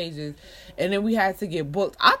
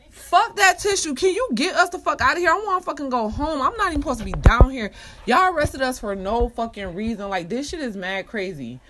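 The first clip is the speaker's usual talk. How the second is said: higher, louder angry outburst that cools off at the end; furious retort; 4 semitones higher, 3 dB louder than usual. Retold or imitated. To the smug detective offering a tissue, furious yelling. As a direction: snap back at him, fed up and outraged. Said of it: "I'm like".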